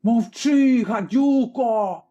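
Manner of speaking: furious shout. A narrator's reading. Tavern keeper screams at the girl to shut up. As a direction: silence the girl with rage. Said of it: "кричала шинкарка".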